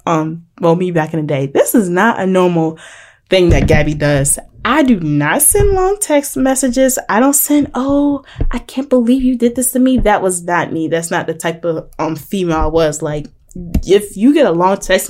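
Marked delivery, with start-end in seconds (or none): 4.6-10.0 theatrically indignant, pitched high; mock wounded protest. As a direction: ham up a hurt complaint. Mocks the kind of text she avoids.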